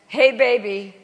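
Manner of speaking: lightly voiced cool Californian; a hint of easygoing West Coast dude; laid-back Californian. Californian seatmate approving of her job, mildly imitated laid-back manner. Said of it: "very laid back".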